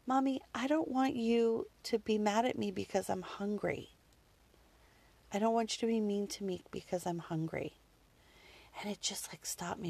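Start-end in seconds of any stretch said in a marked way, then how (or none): 0.1-7.8 lightly voiced young son; sweet little voice. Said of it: "in his sweet little voice".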